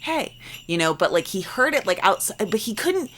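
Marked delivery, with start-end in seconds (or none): 0.0-0.3 high, soft imitation of calling out; mock distant call. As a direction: call "hey" as if from far off, without volume. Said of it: "somebody was calling somebody".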